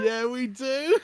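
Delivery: high, loud confirmation; excited. Real, not acted. Excitedly confirms the British usage.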